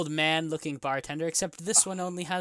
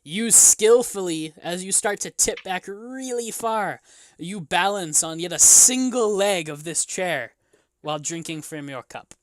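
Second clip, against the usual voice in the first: game master narration; 5 dB louder than usual. Acted. Game master describing a drinker balancing on a chair, dramatic narration. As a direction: stretch the feat out dramatically.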